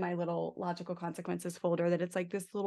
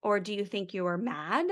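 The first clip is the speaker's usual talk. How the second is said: gentle questions. Shown as a demonstration. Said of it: "you can show 'em pictures".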